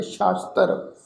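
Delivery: ਸ਼ਾਸਤਰ opened with a clear "sh"; sh sound. Shown as a demonstration. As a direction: say ਸ਼ਾਸਤਰ with sh, not s. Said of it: "ਸੱਸੇ ਪੈਰ ਬਿੰਦੀ ਨਾਲ".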